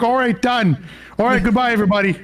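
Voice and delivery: high, chirpy Wisconsin sign-off; Wisconsin accent. Pretend. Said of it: "I like your Canadian accent".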